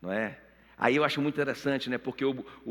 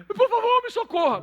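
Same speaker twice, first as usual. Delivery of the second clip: very high, louder panicked plea; desperate begging; 6 dB louder than usual. Retold or imitated. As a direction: Haman clutching the queen, pleading.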